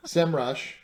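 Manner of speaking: SEMrush as one word, "sem-rush", punched a little; confirmed pronunciation. Shown as a demonstration. Host confirming the brand name after a laugh, SEMrush as one emphatic word. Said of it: "so I said it right".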